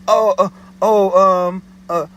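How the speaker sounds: high, slow mock-panicked stammering; imitating the caller caught without the address; panicky stammer. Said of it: "more panicky".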